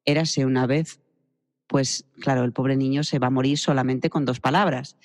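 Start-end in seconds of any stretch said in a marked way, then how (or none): 0.1-1.0 low flat opening. Shown as a demonstration. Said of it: "le empiezo un cuento diciendo".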